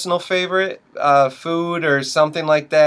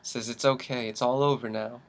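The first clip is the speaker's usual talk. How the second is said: soft, somber narration; hushed grim storytelling; 3 semitones lower, 11 dB quieter than usual. Acted. Host painting a grim morning for co-host, hushed and solemn. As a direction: lay out a tragedy quietly, sinking lower. Grim scenario told as dark comedy.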